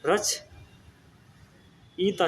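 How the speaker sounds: रचयिता drawn out very slowly, syllable by syllable; slow spelling out. Shown as a demonstration. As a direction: stretch रचयिता out as you spell it. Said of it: "छोटा ई बन जाएगा".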